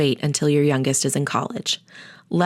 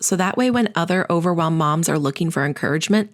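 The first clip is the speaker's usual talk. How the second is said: normal talking voice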